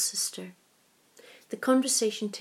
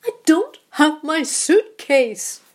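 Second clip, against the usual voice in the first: put-on high, slow, worried old woman's voice; anxious old lady, much louder; fretful old lady; 7 semitones higher, 12 dB louder, slower than usual. A narrator's reading. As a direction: voice her as a fretting elderly wife. Elderly wife voiced in story.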